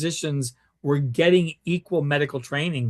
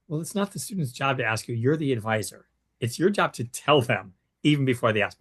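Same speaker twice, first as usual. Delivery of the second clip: polite correction; 3 semitones lower than usual. Retold or imitated. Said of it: "I very politely say".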